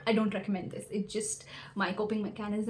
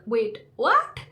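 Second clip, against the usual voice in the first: mildly shocked retold outburst, louder; 7 dB louder than usual. Student told the tickets are sold out, shocked. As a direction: react in mock disbelief, louder on the question.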